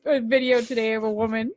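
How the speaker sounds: talking through a laugh. Real, not acted. Telling a co-host about a video, laughing. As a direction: let giggles break into the words. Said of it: "I don't know why I'm laughing".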